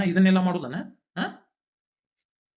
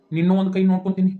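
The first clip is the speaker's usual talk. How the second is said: angry threat; 3 semitones higher, 7 dB louder, faster than usual. Acted. Man threatens his brother with a furious shout. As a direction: spit out the threat in rage.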